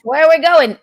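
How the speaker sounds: lightly voiced old movie wise guy; a hint of black-and-white film patter; old-timey movie driver. Wife mocking movie driving, lightly put-on old-timey voice. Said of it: "in the old-timey movies".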